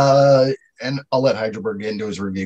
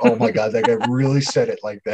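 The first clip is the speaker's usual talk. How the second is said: ordinary talk, nothing marked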